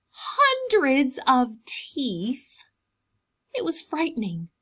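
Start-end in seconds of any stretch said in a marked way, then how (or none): 0.1-2.6 hushed, slow whisper of suspense; storyteller whisper. Acted. Whispering the scary detail to the children, slow and hushed. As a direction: breathe the words out to build suspense.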